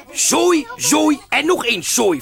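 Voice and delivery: mock disgust, zooi rising loud then falling. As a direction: spit out the word zooi in disgust. Janus's disgust voiced.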